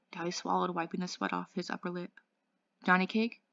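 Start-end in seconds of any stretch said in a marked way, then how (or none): 2.8-3.4 hoarse, anxious call. Acted. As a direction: call his name hoarsely. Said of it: "he said in a hoarse voice".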